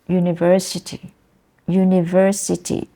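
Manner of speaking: "university" stressed on VER; stress third syllable. Shown as a demonstration. Teacher models the example word, stress third syllable. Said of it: "the third syllable".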